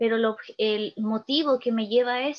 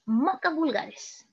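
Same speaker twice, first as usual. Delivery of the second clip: slow recitation; 3 semitones higher, much slower than usual. Acted. Teacher reciting a poem to students, very slow. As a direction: stretch each word slowly.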